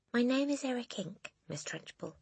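put-on small, high boy's voice, softening at the end; Eric. A narrator's reading. Boy giving his name to the headmistress, high voice. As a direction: answer in a high child's voice.

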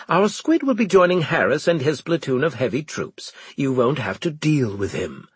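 clipped commanding officer; stern officer voice. Acted. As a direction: talk down like a superior.

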